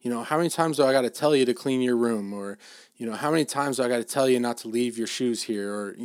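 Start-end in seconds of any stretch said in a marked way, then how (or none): 0.2-2.3 brisk, mildly scolding dad; a little harsh. Retold or imitated. Dad to his son about the messy room, a little harsh. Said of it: "a little harsh". 3.1-5.7 brisk, mildly scolding dad; a little harsh. Retold or imitated. Dad to his son about the messy room, a little harsh. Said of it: "a little harsh".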